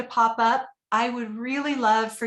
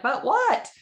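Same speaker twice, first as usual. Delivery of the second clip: retold puzzled question; 10 semitones higher, 4 dB louder than usual. Husband's puzzled reply retold.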